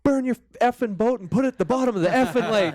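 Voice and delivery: imitating an enraged father threatening the photographer; dad's furious threat. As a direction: blow up like a dad who held it all in. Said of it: "he goes".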